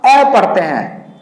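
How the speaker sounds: ए said as a short flat "ae"; short e sound. Shown as a demonstration. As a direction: sound out ए clearly. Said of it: "तो हम ए का". (ए की ध्वनि साफ़ बोलें)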